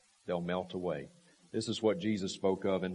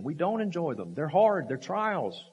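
rising preached emphasis; 6 semitones higher, 4 dB louder than usual. Real, not acted. Preacher building to peak.

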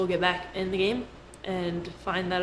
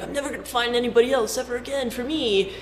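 a higher, lightly whiny imitation of a heartbroken friend; mock crying friend; 4 semitones higher than usual. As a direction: imitate a dumped friend wailing, a little higher. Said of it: "crying and stuff".

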